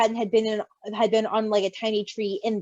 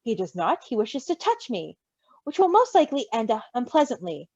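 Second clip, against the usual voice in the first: prim. Acted. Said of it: "Logan said primly".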